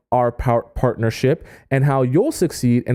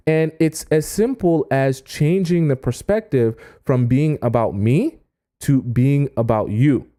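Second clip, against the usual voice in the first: normal talking voice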